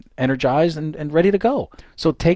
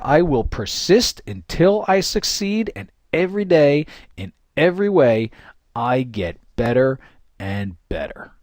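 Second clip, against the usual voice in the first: empowered affirmation; slower than usual. Shown as a demonstration. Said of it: "in a way that really makes you just feel empowered".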